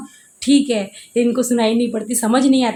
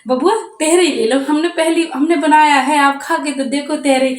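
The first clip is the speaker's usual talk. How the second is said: higher pleading neighbour voice; imitating neighbour; 3 semitones higher than usual. Mother mimicking the neighbour urging her son to taste, raised. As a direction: press the boy to try it. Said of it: "कहने लगी".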